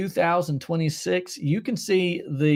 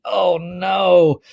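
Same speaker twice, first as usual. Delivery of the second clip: mock dismay; 6 dB louder than usual. Mock dismay at viewer's comment.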